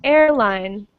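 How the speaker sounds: "Airline" as AIR-line; first-syllable stress. Shown as a demonstration. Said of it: "stress on the first syllable".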